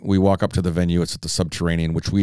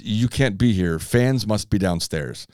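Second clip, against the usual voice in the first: put-on Swedish accent; much slower than usual. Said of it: "In his best Swedish accent".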